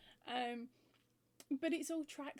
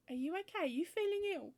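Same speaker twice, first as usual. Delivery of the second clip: worried husband; 7 semitones higher, 5 dB louder, faster than usual. Retold or imitated. Husband worried she goes to bed early.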